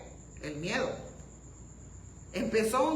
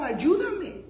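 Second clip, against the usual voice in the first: raised, higher cry for help; acted plea; 8 semitones higher, 8 dB louder than usual. Preacher quoting a doubter asking Jesus for help, acted plea. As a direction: call out for help, briefly acted. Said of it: "pero pidió".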